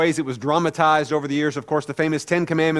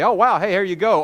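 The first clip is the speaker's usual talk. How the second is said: mock breezy reaction, pitched up; pretend bravery; 4 semitones higher than usual. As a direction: play at being super brave. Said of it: "pretend you'd be super brave".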